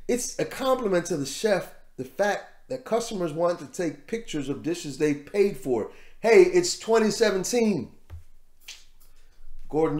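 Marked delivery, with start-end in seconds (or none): 0.1-7.9 bad British accent. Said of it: "My, my accent is horrible".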